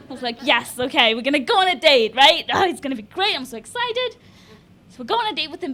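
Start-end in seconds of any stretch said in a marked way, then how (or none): 0.4-4.1 excited. Acted. Woman looking forward to a first date, acted excitement. Acting out thrill before a date.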